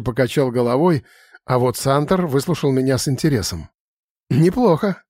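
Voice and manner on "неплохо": Неплохо tossed off higher, with a little huff; mild amused snort. A narrator's reading. Santor approves of the beach idea with a light huff. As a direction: grunt it half-amused, approving. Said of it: "хмыкнул он".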